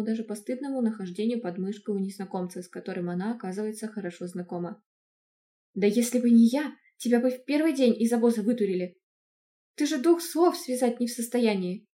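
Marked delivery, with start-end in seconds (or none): 5.7-11.9 loud defiant retort. Acted. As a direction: snap back at the uncle. Niece retorts to uncle. (громкий дерзкий ответ)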